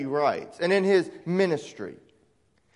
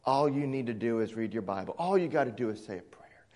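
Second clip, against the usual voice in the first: quick, dismissive mock of a false teacher; lightly mocking, glib and hurried; 4 semitones lower than usual. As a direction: rattle it off like a smug salesman. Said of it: "They tell you".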